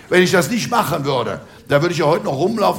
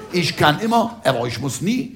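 lightly voiced proud rooster, pitched up on "Ich kann immer"; 3 semitones higher than usual. Comedian quotes the proud rooster's old Rhineland saying, proudly proclaimed. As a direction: say it as a boastful cockerel's motto. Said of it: "spricht der stolze Hahn".

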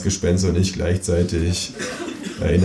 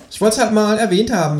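high, offhand kangaroo; 12 semitones higher than usual. A narrator's reading. Kangaroo shrugs off the narrator's question, high. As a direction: shrug it off lightly.

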